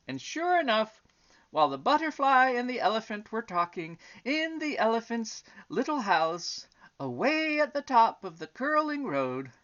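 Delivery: lilting, emphatic storybook narration; story reading to children. A narrator's reading. Reading the elephant and butterfly story aloud, storytelling. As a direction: read it out with sweeping pitch on key words.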